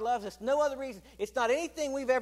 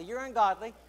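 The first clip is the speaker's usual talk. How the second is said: said out louder to a neighbour, rising at the end; telling the person next to you a bit louder; louder repeat; 5 dB louder than usual. Shown as a demonstration. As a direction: say it again with more push. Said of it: "Tell them, say".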